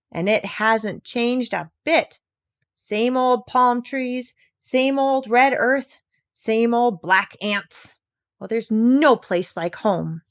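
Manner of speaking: slow, touched recollection; tearful fondness. Acted. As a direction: linger on each memory, moved. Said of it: "tears in her eyes".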